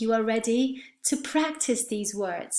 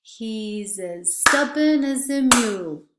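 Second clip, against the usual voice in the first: stubborn and mule punched, as and a weak; stress stubborn and mule; 4 dB louder than usual. Shown as a demonstration. Teacher repeating the sentence, stressing stubborn and mule. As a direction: hit stubborn and mule, reduce the rest. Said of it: "We stress stubborn and mule".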